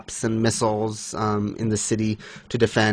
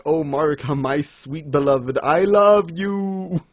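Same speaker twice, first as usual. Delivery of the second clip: mock love yell; 3 semitones higher than usual. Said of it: "he has to yell this".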